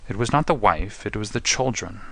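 mildly anguished prisoner; a touch of a groan in the words. Acted. Prisoner confessing it was for his children, groaning. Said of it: "groaned the prisoner".

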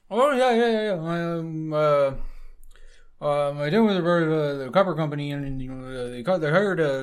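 put-on thick Upper Midwest accent. Old sailor explaining the copper company in a thick Upper Midwest accent. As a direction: pile on the Upper Midwest accent, fast and loud. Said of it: "It's a bit thick on the accent".

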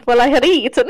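lightly imitated Transylvanian accent, drifting Italian; Italian-sounding Transylvanian accent. Copying co-host's Dracula, lightly Italian-sounding Transylvanian accent. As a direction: mimic a faux Transylvanian with Italian lilt. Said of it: "It sounds very Italian".

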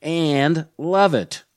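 scripted welcome with emphatic key words; podcast host intro. Acted. Host welcomes listeners and previews the guest, podcast host intro. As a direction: present the episode in deliberate, swinging phrases.

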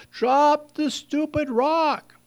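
high, slow yell, stressing drop; mock exasperated yell. Rescuers in the boat yelling again, exasperated drawn-out call. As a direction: call it out, losing patience. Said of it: "the people in the boat yell".

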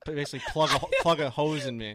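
words bubbling with laughter; laughing. Real, not acted. Joking to friends, laughing through it.

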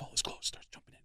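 hushed gossip whisper. Retold or imitated. Agent telling the comic what Tracy did, whispered. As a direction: keep it under the breath.

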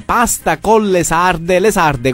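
slow, spelled out. Acted. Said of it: "va bene, ascolta".

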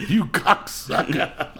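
a high, loud cry that melts into giggles; can't finish the insult for laughing. Retold or imitated. Teasing the stranger from the car, cracking up mid-insult.

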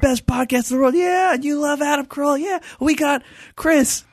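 high, loud hype-man voice; hyping emcee. Retold or imitated. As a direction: pump up the crowd like an emcee. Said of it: "getting the crowd all riled up".

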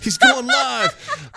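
high, slow, drawn-out hype; excited announcement. Retold or imitated. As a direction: announce it like big news. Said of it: "He's like".

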